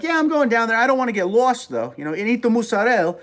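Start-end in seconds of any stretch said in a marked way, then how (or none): 0.0-1.9 high-pitched New York accent on odd words; casual New Yorker, pitched up, accent on LOST; New York vowels, much higher voice. Shown as a demonstration. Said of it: "It'll be like". 2.1-3.2 high New York Italian-American accent; Italian-American pronunciation, pitched up. Shown as a demonstration. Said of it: "they'll change words here and there".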